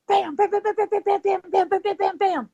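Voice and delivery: high, rapid-fire bams; imitated gunfire. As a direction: rattle off pretend Old West shots. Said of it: "gunfire from the Old West sounds like".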